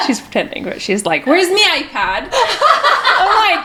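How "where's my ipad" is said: high, drawn-out mock Irish accent; child's Irish accent. Mum imitates her little daughter pretending to be Irish, child's Irish accent. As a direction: put on a little girl's pretend Irish lilt, slowly. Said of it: "like, a little Irish accent".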